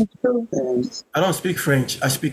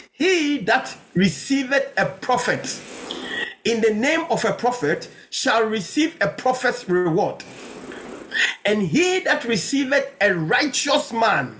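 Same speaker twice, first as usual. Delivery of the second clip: measured, emphatic verse reading; preacher reading solemnly to the church; scripture reading; 4 semitones higher than usual. Real, not acted. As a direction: proclaim the verse phrase by phrase, with pauses. Reads Bible verse to church.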